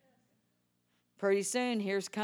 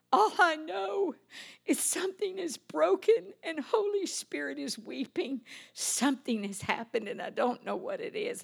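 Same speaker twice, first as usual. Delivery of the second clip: crying; 7 semitones higher than usual. Retold or imitated. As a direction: speak through tears, words breaking. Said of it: "I can't stop crying".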